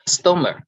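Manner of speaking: "Customer" with CUS high and strong; stress on first syllable. Shown as a demonstration. Teacher reading out the first column, first-syllable stress on "Customer". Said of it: "so we stress on the first".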